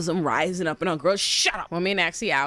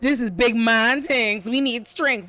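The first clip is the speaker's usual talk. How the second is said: louder, drawn-out mock rallying cry; mock war rallying; 2 semitones higher, 3 dB louder, slower than usual. Men of the council demanding a man for war, mock rallying. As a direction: declare it like a hammed-up war council.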